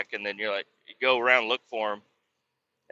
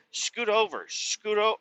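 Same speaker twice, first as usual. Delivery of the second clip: high, softer nagging voice; 9 semitones higher, 4 dB quieter, slower than usual. Retold or imitated. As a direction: imitate a high-pitched nag. Retold nagging order to move over.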